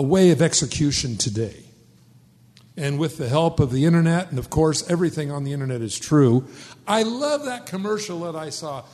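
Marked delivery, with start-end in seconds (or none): 4.9-6.5 dry sarcasm, quick; sarcastic. Real, not acted. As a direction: say it as an obvious joke. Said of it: "sarcastic remark".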